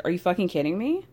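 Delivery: disbelieving question, rising at the end; a lightly voiced incredulous Ariana; incredulous retort. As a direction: throw it back in disbelief. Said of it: "So Lala starts saying".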